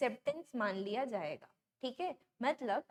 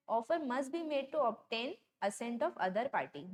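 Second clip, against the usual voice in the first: very slow, word by word, like reading a law to copy down; slow dictation; much slower than usual. Shown as a demonstration. Teacher dictating the contract rule to students, very slow and deliberate. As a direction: spell out each word of the rule. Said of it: "मतलब यहाँ क्या बोल रहे हैं".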